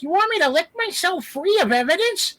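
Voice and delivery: squeaky sped-up giant cat purring threats; crazy cat voice. Acted. Giant cat in a movie dub, crazy high cat voice. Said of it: "they want crazy voices".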